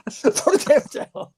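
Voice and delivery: high, breathless whispered coach line; whispered Duke impression. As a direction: hiss it like a cornerman losing his voice. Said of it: "his impression of Duke".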